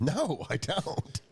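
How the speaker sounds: high, stretched-out no; emphatic refusal. Real, not acted. Friend rejecting advice to catch up on Seinfeld, emphatic refusal.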